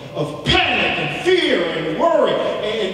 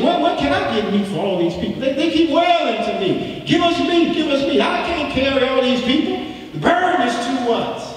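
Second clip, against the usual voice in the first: anguished outcry; 7 semitones higher than usual. Acted. Preacher voicing Moses' anguished complaint.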